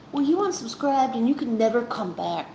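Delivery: a mocking, pompous put-on voice; lightly hammed-up snobby creator voice; mock snooty creator. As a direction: sneer it like a petty gatekeeper. Mocking imagined entitled creator.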